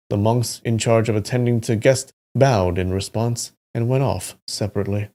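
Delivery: story narration. A narrator's reading. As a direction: read the tale aloud with deliberate phrasing. Reads the novel aloud.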